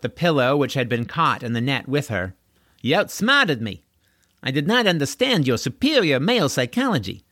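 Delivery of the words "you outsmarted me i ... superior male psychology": sarcastic flattery. Acted. Deirdre mock-flatters Corwin.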